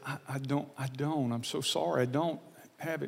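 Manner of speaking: soft, embarrassed retold apology to the mom; quiet apology. To the young mom asking for gas money, a soft sorry. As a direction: say it softly, sorry you can't help.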